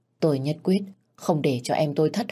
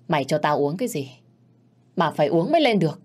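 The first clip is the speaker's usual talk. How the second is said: menacing; faster than usual. Acted. Man grabs woman by throat.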